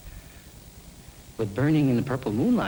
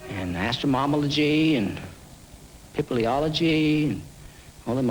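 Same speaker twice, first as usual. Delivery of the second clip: lightly voiced mother, higher and coaxing; nagging mother; 6 semitones higher than usual. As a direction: coax him off to school in a higher voice. Mother urging boy to school.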